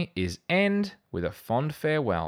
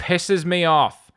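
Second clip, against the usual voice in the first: slow, loud and much higher in real irritation; real annoyance; 9 semitones higher, 8 dB louder, slower than usual. Real, not acted. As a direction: spit it out, truly fed up. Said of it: "breathing out anger".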